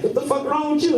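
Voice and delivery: squeaky shocked dad; dad gaping at his son; high incredulous dad. Retold or imitated. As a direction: fling the question up high in disbelief. Dad confronting son in story.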